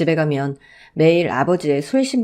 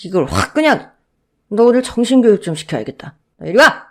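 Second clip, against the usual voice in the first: louder, menacing threat; threatening father; 4 semitones higher, 4 dB louder than usual. Acted. Drunk father threatening to discipline his son, menacing. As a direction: threaten the boy before a beating.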